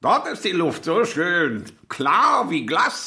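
raving. Acted. Tailor raves about Buenos Aires.

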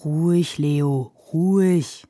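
drawn-out calming words to an animal; soothing. A narrator's reading. Handler calms the horse Leo, soothing. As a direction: settle a nervous horse. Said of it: "sagte er".

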